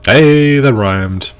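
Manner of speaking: loud, high delighted hey; surprised. Real, not acted. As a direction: blurt it out, pleased. Noticing rhyme.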